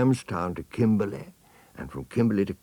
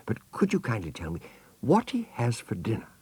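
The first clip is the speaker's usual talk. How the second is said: put-on elephant's child; 6 semitones higher than usual. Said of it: "said the elephant's child".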